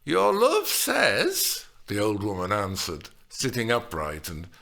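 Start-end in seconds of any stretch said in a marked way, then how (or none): 0.0-1.6 slow, loud teasing drawl; teasing pause. A narrator's reading. Nurse teases Juliet by drawing out words. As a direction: make her wait for it. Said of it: "then she paused".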